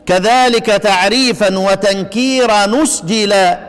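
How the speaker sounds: slow, measured reading of didactic verse; verse recitation. Shown as a demonstration. Teacher reading the poem's lines to students, slow verse recitation. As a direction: recite the couplet slowly, drawing out the long vowels. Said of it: "قراءة الأبيات عشان اللي يحب يقرأها".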